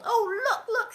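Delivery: mock gleeful shout. A narrator's reading. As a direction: call out gloating. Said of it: "she shouted, laughing".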